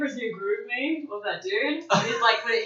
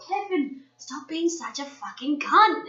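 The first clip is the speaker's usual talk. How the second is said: imitated drawn-out scolding, high on the name; mock telling-off, slowly stretched out; exasperated goat owner; 3 semitones higher, slower than usual. Goat owner scolding Kevin the goat, mock exasperated. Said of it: "keeps ke-, telling Kevin's like".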